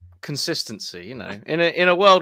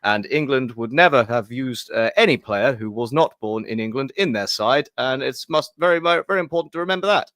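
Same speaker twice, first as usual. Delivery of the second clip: Boris Johnson, hoity-toity English; 4 dB louder than usual. Acted. Co-host recapping England's defeat for the fans, hoity-toity English accent. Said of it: "some sort of weird Boris Johnson".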